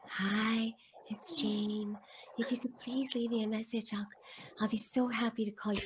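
soft, timid, apologetic message voice; apologetic voicemail. Retold or imitated. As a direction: read the greeting as if sorry for existing. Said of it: "You sound like you're apologizing for living".

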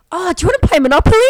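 high, fast, breaking into laughter; wife giggles recalling her offer of Monopoly; laughing quick offer. Retold or imitated. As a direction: rush it out and crack up. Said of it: "I go".

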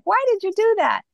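imitating her old frustrated self; retold exasperation. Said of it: "And I used to get so mad".

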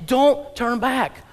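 slow, weighty "Don't turn back."; emphatic warning. Acted. Preacher urging the church not to turn back. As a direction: stretch each word out. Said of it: "the Bible's saying".

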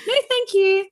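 high, emphatic "no thanks"; firm refusal. Retold or imitated. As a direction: shut it down, half-joking. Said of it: "I'm like".

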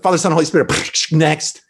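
rattled off like an assembly line, a laugh on next; mock perfunctory baptism. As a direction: hurry through the blessing as a careless joke. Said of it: "we don't do it like Nacho Libre".

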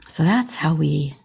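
breathy whisper after a sigh. Real, not acted. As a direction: let it fade into a whisper. Recounting son's death, sighing.

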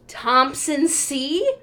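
slow, loud, rising name call; questioning call. Retold or imitated. Gate agent calling the last standby passenger, questioning call.

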